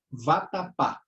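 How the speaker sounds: "vatapá" with weight on the final PÁ; measured "vatapá", landing on PÁ; stress on PÁ. Shown as a demonstration. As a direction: lean on the last syllable of "vatapá". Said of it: "a última sílaba é a mais forte".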